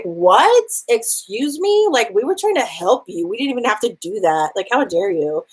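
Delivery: sisters who can't believe they're being left; mock indignant. Sisters outraged at abandonment.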